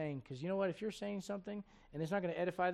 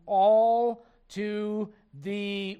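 very slow, loud, each word stretched; drawn-out prompt; 4 semitones higher, 12 dB louder, much slower than usual. Real, not acted. Preacher cues congregation to finish the verse, drawn-out prompt.

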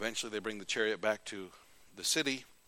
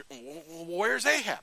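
confused soldiers; 6 semitones higher, slower than usual. Retold or imitated. Syrians confused searching.

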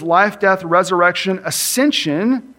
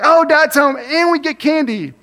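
put-on higher kid voice, only mildly pleased; routine kids' greeting; 9 semitones higher, 3 dB louder than usual. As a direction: kids greet Dad like just another candy day, mildly pleased. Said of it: "it was like I was equal".

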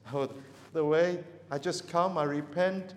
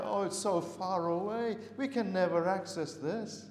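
a mildly higher, hammed-up lament; despairing cry; 4 semitones higher than usual. Preacher voicing people who think God's word is unreachable, mock despairing. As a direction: voice the hopeless seeker crying out. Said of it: "It's like a despairing cry".

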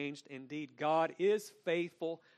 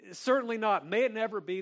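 loud, high forceful denial; emphatic Paul quote; 7 semitones higher, 7 dB louder, faster than usual. Retold or imitated. Preacher repeats Paul's emphatic no to the church, booming. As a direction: thunder it out like Paul. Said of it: "And Paul is very emphatic".

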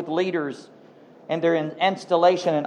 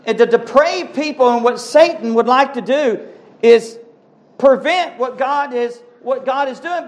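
higher-pitched, emphatic sermon delivery; impassioned preaching; 7 semitones higher than usual. Real, not acted. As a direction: preach it with rising fervour. Preacher building to a climax.

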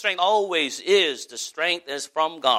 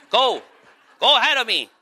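louder, higher mock urging; retold send-off; 4 semitones higher, 5 dB louder than usual. Preacher re-enacting sending wife and kids on, raised urging voice. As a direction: shoo them along with raised voice. Replays sending his family on.

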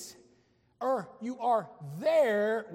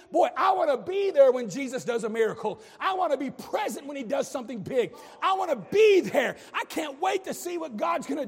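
preaching at full force; 3 semitones higher, 4 dB louder than usual. Real, not acted. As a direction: build the fervour to a shout. Sermon reaching a peak.

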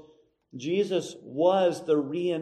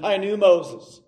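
grumbling crowd; 2 semitones higher, 4 dB louder than usual. Acted. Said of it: "the older ones in the crowd are saying".

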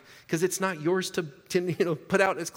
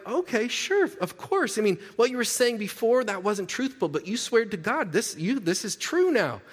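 sarcastic cop; 6 semitones higher than usual. Retold or imitated. Mocking cop's sarcastic reply.

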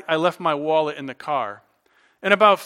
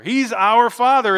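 emphatic preaching; 5 semitones higher, 6 dB louder than usual. Real, not acted. Preaching climax.

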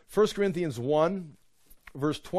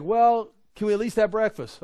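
higher, louder comic pestering; mock pleading; 6 semitones higher, 5 dB louder than usual. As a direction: play the hungry crowd haggling for a meal. Hungry crowd voiced still pestering.

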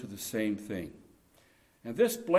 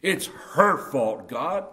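slow, louder pleading excuse; calculating blame; 5 dB louder, slower than usual. Retold or imitated. Adam excusing himself to God, slow and insistent. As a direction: push the blame off, drawn out. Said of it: "How could Adam be so calculating and cold?".

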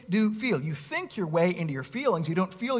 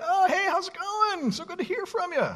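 fake cheerful phone greeting; 13 semitones higher than usual. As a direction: switch instantly to sweet phone manners. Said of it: "you're like".

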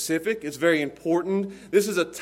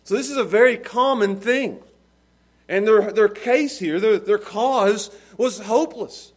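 raised, emphatic preaching voice; 8 semitones higher, 8 dB louder than usual. Real, not acted. Preacher tells congregation about the hopeless blind, preaching. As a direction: preach with force, punching key words.

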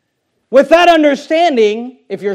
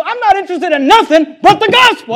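a lightly voiced apostle, higher and set apart from the preaching; Paul's firm reply; 8 semitones higher, 4 dB louder than usual. Paul answering the question about first principles, lightly voiced and firm. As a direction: answer the question flatly, as if the matter is closed. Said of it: "That's what he would say".

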